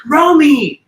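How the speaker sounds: high, loud swooning name; smitten call. Retold or imitated. Mechanic swooning after the act, high call. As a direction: sigh the name like he's won. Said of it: "he goes".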